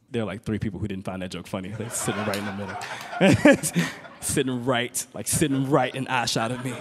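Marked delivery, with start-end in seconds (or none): none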